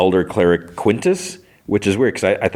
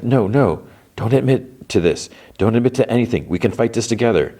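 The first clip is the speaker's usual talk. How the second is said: higher-pitched imitated plea; retold pleading; 5 semitones higher than usual. Wife begs husband not to admit to it, retold pleading. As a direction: lightly act out an urgent plea. Barb pleads with him before arrest.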